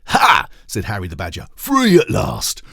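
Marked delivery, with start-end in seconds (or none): 0.1-0.5 loud, high exclamation; freed badger crowing, high and loud; triumphant "Ha!". Harry triumphs. 1.6-2.6 very high, loud, slow cheer; joyful cry. Acted. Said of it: "cried all the other badgers".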